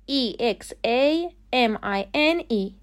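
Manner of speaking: spelling examine letter by letter, slowly; spelled out. Shown as a demonstration. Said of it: "تلفظ صحیح examine". (هجی کردن آهسته حروف examine)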